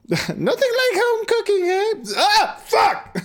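very high crone cackle breaking into a laugh; cackling witch voice. Acted. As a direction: cackle it and crack up. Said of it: "came a cackling voice".

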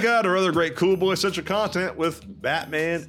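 big, theatrical sign-off with swooping pitch; podcast announcer. Acted. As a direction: stretch key words like a show announcer. Podcast outro read over music.

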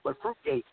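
Fruitgate thrown up high on the punchline; punching Fruitgate as the joke's payoff; emphatic punchline word. Shown as a demonstration. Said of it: "Like Watergate".

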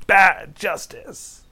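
high, drawn-out imitation; retold cry, slow and high; half-voiced mock shout; mock defiant yell. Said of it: "she's yelling".

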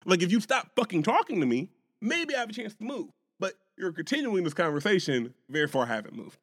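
snapping back at the white man, pitch up; angry retort. Retold or imitated. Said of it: "I'm like".

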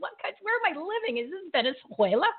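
high, fast mock Spanish accent; hammed-up Spanish accent. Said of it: "I was trying to do a little Spanish accent".

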